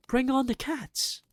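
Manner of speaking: put-on high, loud triumphant boy's call; excited cry. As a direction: cheer the plan on. Boy shouting his plan.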